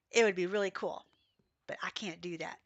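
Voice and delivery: breathy hushed whisper; whispered aside. Real, not acted. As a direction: drop to a secret whisper. Sudden whisper aside while playing.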